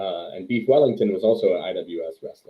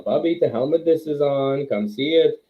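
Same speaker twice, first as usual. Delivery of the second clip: high, mildly raised mock yell; retold child's yell; 6 semitones higher than usual. Wrestler as a child calling his grandmother to watch wrestling, mock yell. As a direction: call out to grandma, a bit higher. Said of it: "and I would yell".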